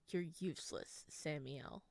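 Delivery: low, soft demon taunt; a hint of cold contempt. Demon mother taunting her son, soft and cold.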